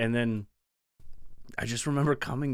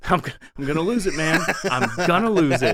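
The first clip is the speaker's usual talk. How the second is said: frustrated; 4 semitones higher, 8 dB louder, faster than usual. Retold or imitated. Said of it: "And you're like".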